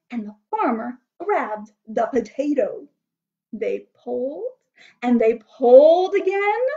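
animated storybook reading with big swelling emphasis; story narration. A narrator's reading. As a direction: build the wonder for small listeners.

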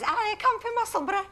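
high-pitched, put-on Musselburgh accent. Guest showing how a local says it, exaggerated Musselburgh accent. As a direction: imitate a broad Musselburgh local. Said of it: "I love that accent".

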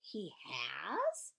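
wondering, rising question; astonished little query; amazed question. Acted. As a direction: ask it with a swooping rise. Amazed reaction, eyebrows raised.

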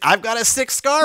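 fast, loud dude-bro showing off. Acted. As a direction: brag like a college bro. Voicing Jesus as a bro.

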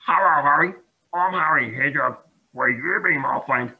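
a touch of hesitant hedgehog; hesitant Harry. Acted. Harry meeting Holly, mildly hesitant. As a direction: ask it shyly, holding back. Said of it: "asked Harry hesitantly".

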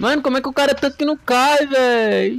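rápido, agudo e indignado; incrédulo. Real, not acted. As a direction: reclama sem acreditar. Inimigo não cai. (incredulidade agitada)

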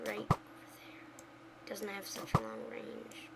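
hushed whisper. Real, not acted. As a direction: whisper it to yourself. Quiet aim.

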